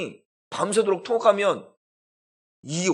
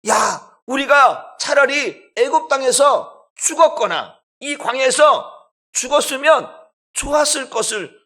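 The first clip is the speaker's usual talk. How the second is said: crying complaint; 6 semitones higher, 5 dB louder than usual. Acted. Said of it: "우는데 뭐라고 했니".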